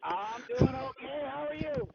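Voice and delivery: like talking in a tunnel; boxy, muffled phone mic. Real, not acted. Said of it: "You sound like you're in a tunnel".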